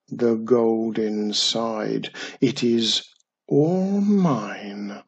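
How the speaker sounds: slow, drawn-out curse warning; ominous recited rhyme. A narrator's reading. Boy reciting the treasure's curse, slow ominous chant. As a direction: stretch the words like a pirate's warning. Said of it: "recounted the hidden rhyme".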